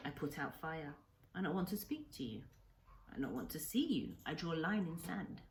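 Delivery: lightly voiced old man in broken English, grave and sorrowful; a hint of an old Japanese hermit telling his grief; Kensuke's voice. Old islander recounts his story.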